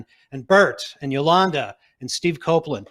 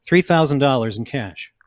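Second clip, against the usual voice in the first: louder, straight into the mic; into the microphone; 5 dB louder than usual. Real, not acted. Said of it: "Say that into the microphone".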